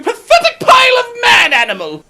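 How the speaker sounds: put-on whiny creature voice; a touchy actor scolding the critic; offended character voice; Turl character voice.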